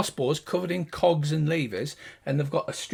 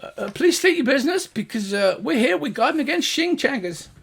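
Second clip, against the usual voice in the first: high, louder gnome voice; officious gnome guard; 8 semitones higher, 4 dB louder than usual. Acted. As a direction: state the rules importantly. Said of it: "And he says".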